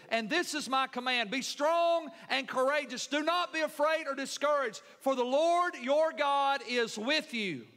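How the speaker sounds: ringing preacher's scripture reading; emphatic scripture reading. Acted. Preacher reads God's charge to Joshua, emphatic scripture reading. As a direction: read it out as a firm command.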